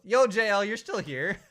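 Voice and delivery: high, loud surprised shout; yo, you're still here; surprised greeting. Real, not acted.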